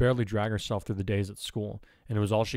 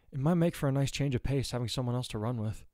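lightly voiced friend, pitched higher; friendly running friend; 4 semitones higher than usual. Boy offering to train with friend, lightly voiced.

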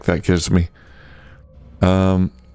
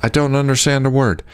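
higher, mildly voiced irritated woman; grumpy worker woman; 6 semitones higher than usual. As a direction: shrug off the noise, a bit higher. NPC line, then player repeats.

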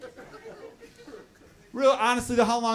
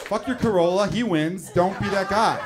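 mock cop; 4 dB louder than usual. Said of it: "police officers are like".

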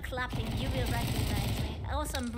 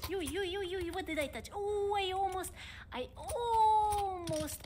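higher, alarmed yelps; startled panic; 5 semitones higher than usual. Real, not acted. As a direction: react as if the cup just tipped. Near coffee spill panic.

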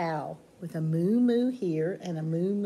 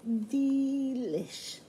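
pig's voice; 5 semitones higher than usual. Acted. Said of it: "And the pig says".

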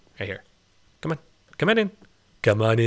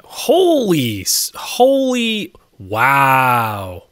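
amazed; 2 semitones higher, 5 dB louder, much slower than usual. Real, not acted. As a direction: gasp it out in awe. Amazed at the squids.

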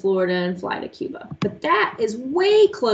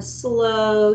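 drawn-out word. Shown as a demonstration. Word stretched to illustrate slow heartbeat.

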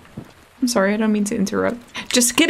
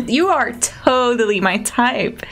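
character voice; 4 semitones higher than usual. Pretend. Reading NPC lines aloud.

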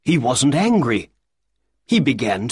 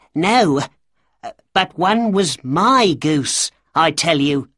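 higher, louder pleading cry; 5 semitones higher, 3 dB louder than usual. Acted. Little man crying out to the shopkeeper about his goose, pleading. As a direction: protest desperately. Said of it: "cried the little man".

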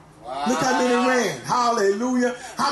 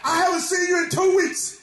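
raised, scolding preacher voice; preached Jesus scolding; 3 semitones higher than usual. Acted. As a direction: rebuke them as Jesus would, voice raised.

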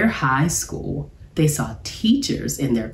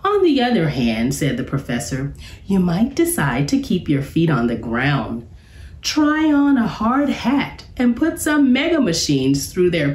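professor voice. Acted. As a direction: play the jolly professor pitching a job.

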